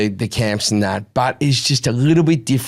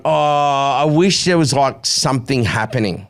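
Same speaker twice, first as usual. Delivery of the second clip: put-on whiny kid; 2 semitones higher than usual. Bored son lying on the couch, slow mock whine.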